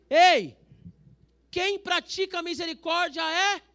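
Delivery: loud, slow, high call; preacher's shout. Real, not acted. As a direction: shout to wake the church up. (pastor gritando para a igreja)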